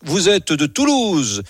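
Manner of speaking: lightly put-on Gascon accent for a recited poem; Gascon accent, imitating uncle. Reciting his farmer uncle's poem on the radio, Gascon accent. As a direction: recite verse like an old Gascon countryman, phrase by phrase. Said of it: "je vais essayer de le faire comme lui".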